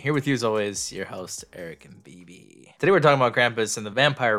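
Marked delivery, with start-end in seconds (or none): 0.0-2.8 podcast host intro. Acted. Host welcoming listeners to horror podcast, showy intro read. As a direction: announce the show with emphasis, then ease off.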